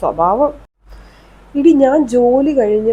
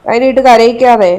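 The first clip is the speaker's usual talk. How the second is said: louder, sharp scolding; 4 dB louder than usual. Acted. Mother-in-law scolding daughter-in-law over crying baby, louder and sharp. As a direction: tell her off for making the baby cry.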